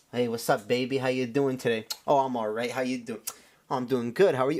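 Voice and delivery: mock flirty mirror rehearsal, pitched low; lightly voiced smooth-talker chatting himself up; spitting game. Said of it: "like, spitting game".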